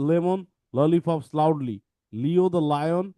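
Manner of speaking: slow, deliberate, every L sounded; slow tongue twister. Shown as a demonstration. Teacher modelling the tongue twister for students, slowly. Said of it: "আমরা একটু দেখি".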